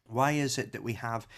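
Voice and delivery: chewing chocolate while talking; mouth full. Real, not acted. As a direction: talk through a mouthful of chocolate. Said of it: "I'm eating a chocolate bar".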